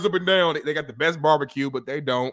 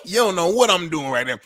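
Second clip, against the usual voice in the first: loud laughing confession; 7 dB louder than usual. Real, not acted. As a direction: laugh through the words.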